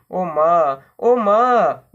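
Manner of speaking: put-on frightened child crying to her mother; a touch of tearful wailing; sobbing. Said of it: "बस सुबकती रही".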